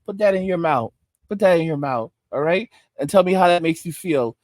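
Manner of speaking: low, soft coaxing voice; the streets as pimp. Acted. The streets tempting a girl with candy, low pimp coaxing. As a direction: play a smooth pimp luring someone in. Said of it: "Streets is like".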